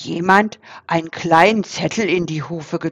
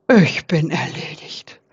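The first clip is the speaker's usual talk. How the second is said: lower, a touch of a dying groan; hammed-up sick boar; dramatic rasp; 4 semitones lower than usual. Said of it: "röchelte Eberhard dramatisch". (dramatisch röchelnd)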